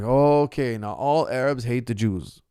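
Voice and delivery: slow, put-on voice parodying a pundit; mimicking a pundit's claim about Arabs, sarcastic; mocking quote. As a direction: lampoon the claim, dragging it out.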